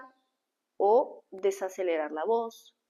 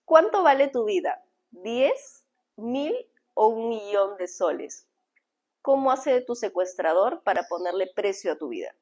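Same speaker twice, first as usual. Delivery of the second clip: rising, probing questions with long pauses; dramatic hook question. Shown as a demonstration. Coach opening a talk, posing a gripping question. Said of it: "Ese es un gancho fuerte".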